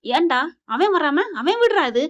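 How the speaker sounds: mock yell of an indignant grandmother; retold grandmother's shout. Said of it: "அப்படின்னு அப்பத்தா கத்துது". (பாட்டி கத்துவது போல)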